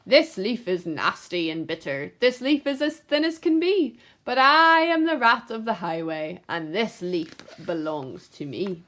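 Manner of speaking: lightly voiced robber rat; greedy rat scorning the leaf; rat bandit. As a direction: grumble then gloat. The rat's voice again.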